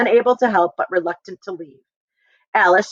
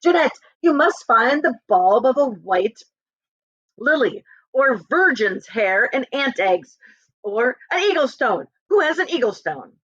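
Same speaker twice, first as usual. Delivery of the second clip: raised, frantic calling; 5 semitones higher than usual. Acted. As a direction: call out frantically through the window. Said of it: "calling out".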